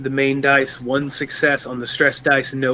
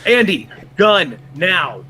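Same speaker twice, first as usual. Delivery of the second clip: louder, higher urgent order; urgent command; 4 semitones higher, 4 dB louder, slower than usual. Acted. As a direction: call out a sharp in-game command. Character orders companion during walker attack.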